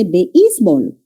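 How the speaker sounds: "béisbol" slowly, split as be-ÍS-bol; stress as written. Shown as a demonstration. Teacher reading out what is written, "béisbol" split be-ÍS-bol. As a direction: read "béisbol" slowly with "be" apart from "ís". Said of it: "¿Qué dice ahí?".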